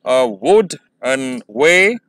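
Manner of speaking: "A wooden way" very slow, broken syllable by syllable; slowly. Shown as a demonstration. Teacher demonstrating the meter slowly first, syllables pulled apart. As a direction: draw out A WOOD-en WAY, rising at the end. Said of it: "पहले slowly करते हैं".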